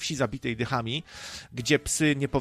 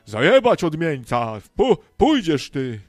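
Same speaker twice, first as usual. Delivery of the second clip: angry villager; 6 dB louder than usual. Acted. Villagers chasing away the outcast, angry mock shouting.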